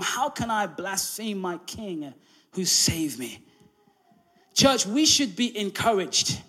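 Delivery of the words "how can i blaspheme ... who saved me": slow, soft, firm declaration; quiet resolve. Retold or imitated. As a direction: say it slowly as your own vow. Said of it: "I settled deep down in my heart saying".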